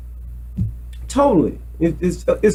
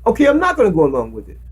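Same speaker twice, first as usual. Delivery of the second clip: quick choice; 3 semitones lower, much faster than usual. Shown as a demonstration. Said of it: "You must make that decision".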